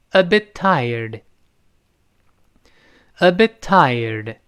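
"a bit tired" slowly, t of "bit" held without release; unreleased t. Shown as a demonstration. Teacher models "a bit tired" for repetition, unreleased t. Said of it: "那个a bit在这失去爆破了".

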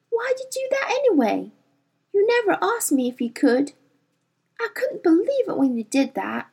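put-on young girl scolding her daemon, mildly; girl chiding, understated; lightly voiced Lyra, indignant. Lyra voiced in held run.

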